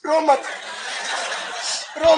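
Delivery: an aunt loudly telling the bride not to cry; aunt hushing the bride. Retold or imitated. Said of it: "फिर कहेगी".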